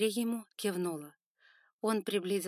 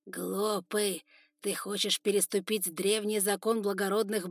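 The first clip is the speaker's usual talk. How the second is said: contemptuous scolding, growing louder; stern lecture; 2 semitones higher, 5 dB louder than usual. Acted. Father scolding his son about the law, stern and building. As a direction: belittle the son.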